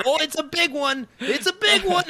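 very high imitated whoop, climbing on the repeat; mock fisherman excitement. Coach imitating goofy kid who grabbed a leg, mock excited cry. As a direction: play a kid reeling in a huge fish. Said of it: "Like he's deep sea fishing".

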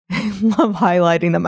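starts on a small laugh; light chuckle slipping into the words. Real, not acted. Talking about media and child prodigies, laughing a little. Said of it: "I'm laughing because".

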